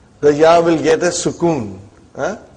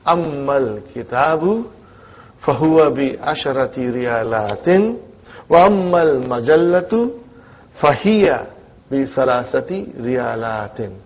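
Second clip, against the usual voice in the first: slow, careful read-aloud for students; slow school dictation; 2 semitones lower than usual. Shown as a demonstration. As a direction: read it out slowly, word by word. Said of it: "I will read it again".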